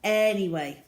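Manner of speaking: cosy after-story chat; soft chatty wrap-up. Real, not acted.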